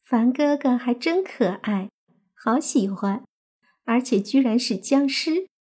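put-on dreamy girl voice, hushed; murmuring. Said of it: "低语道".

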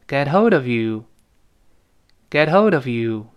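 "get hold of you" as one joined piece; linked phrase. Shown as a demonstration. Teacher leads students to repeat, linked "get hold of you". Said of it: "先把这个小片段读一遍".

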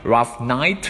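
"Rough night" read as a question, climbing on night; rising question tune. Shown as a demonstration. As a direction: let night rise in "Rough night". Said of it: "读的时候要读成声调".

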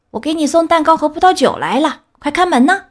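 high, sugary fake little-girl voice; wolf faking a girl. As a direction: trick her with a sweet child's voice. (狼假扮小红帽，捏着嗓子说)

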